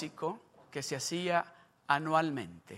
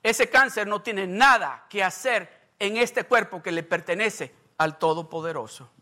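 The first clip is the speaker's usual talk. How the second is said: speaking louder; 5 dB louder than usual. Retold or imitated. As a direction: stand up to the doctor, a touch stronger. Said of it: "empezó a hablar más fuerte". (declarando más fuerte, con firmeza)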